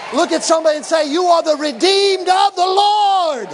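high, loud preaching building to long-held shouts; fiery preaching. Real, not acted. Preacher tells congregation to claim authority, preaching at full force.

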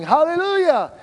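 high ringing praise cry; hallelujah shout. Retold or imitated. Pastor shouting praise at the outreach, joyful. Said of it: "there's me going".

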